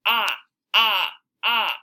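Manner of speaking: clipped short "ah" sound; short vowel sound ah. Shown as a demonstration. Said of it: "because it says".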